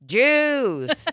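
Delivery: very slow deadpan "ha ha" then a single word; Mark Normand impression. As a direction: drag it out like a deliberate bit. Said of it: "walking around going".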